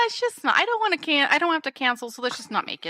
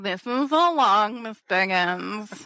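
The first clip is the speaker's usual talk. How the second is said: mock drunk. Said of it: "So Brenda's drunkenly like".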